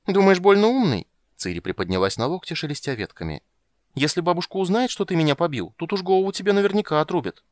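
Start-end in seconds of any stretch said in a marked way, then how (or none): 0.1-1.1 put-on high, loud scornful child; a girl mocking him; indignant little girl. Ciri to Geralt, high indignant retort. Ciri's voice. 3.9-7.4 put-on high, loud scornful child; a girl mocking him; indignant little girl. Ciri to Geralt, high indignant retort. Ciri's voice.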